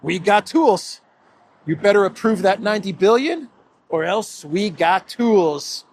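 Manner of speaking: mock menacing Costa. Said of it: "What did I say?".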